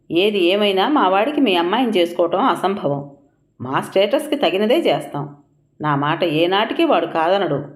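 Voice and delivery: mildly pressed, words stressed; firm and emphatic. A narrator's reading. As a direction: lay down the law, stressing each point. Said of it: "అంది గట్టిగా నొక్కి పలుకుతూ".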